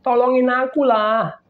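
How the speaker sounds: high, loud begging prayer; pleading woman. Retold or imitated. Woman begging God to help her resist, high pleading cry. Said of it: "Lalu dia bilang".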